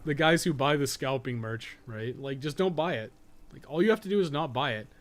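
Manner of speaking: ordinary talk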